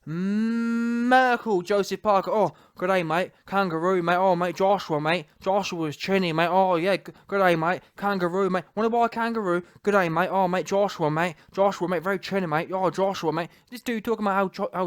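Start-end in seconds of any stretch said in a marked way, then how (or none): 0.1-1.6 "Merkel" held very long; drawn-out emphasis. Real, not acted. Relishing his catchword for knockouts. 2.3-13.5 mock Australian-New Zealand accent; hammed-up Aussie "mate" patter; Joseph Parker. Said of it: "I'm from New Zealand, and I'm Australian".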